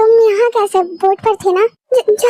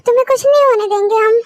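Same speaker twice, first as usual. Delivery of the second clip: soothing. Acted. Soothing frightened child. (धीमी, तसल्ली भरी आवाज़)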